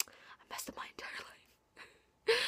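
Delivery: slow, mock-tragic whisper; a hushed, dramatic lament. Real, not acted. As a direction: whisper it like a confession of doom. Mock despair over a typo.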